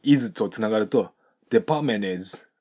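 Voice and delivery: "デパートメントis" said as depamenez, T dropped; linked without T. Shown as a demonstration. Teacher shows learners the link, "デパートメントis" without its T. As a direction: run "デパートメントis" together with no T. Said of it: "Tを発音しない".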